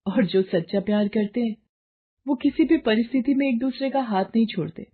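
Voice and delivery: firm, loving reassurance; devoted wife. Acted. Wife promises husband she will never leave, firm. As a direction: promise her loyalty steadily.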